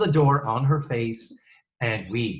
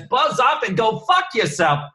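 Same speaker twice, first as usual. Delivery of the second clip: angry snap; 10 semitones higher, 5 dB louder than usual. Acted. Acted quote, high and loud.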